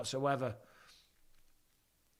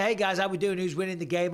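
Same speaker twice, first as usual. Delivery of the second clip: eager greeting; 4 semitones higher, 4 dB louder than usual. Retold or imitated. Acts out his chat message.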